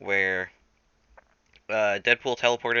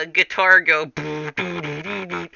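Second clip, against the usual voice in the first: goofy guitar noises; 7 semitones higher, 4 dB louder than usual. Acted. Stewart the minion makes silly guitar noises. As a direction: play air guitar with your mouth. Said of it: "And Stewart says".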